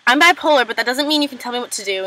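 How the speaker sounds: mildly angry quote, punched at the start; retold anger. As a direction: imitate someone getting defensive. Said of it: "and gets all angry".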